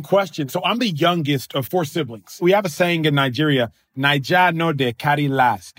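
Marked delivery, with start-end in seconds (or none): 4.0-5.8 Nigerian pidgin. Shown as a demonstration. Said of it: "You say it with the Nigerian accent".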